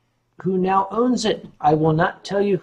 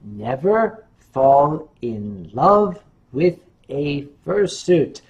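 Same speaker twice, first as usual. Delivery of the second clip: solemn warning; 4 semitones lower, slower than usual. Real, not acted.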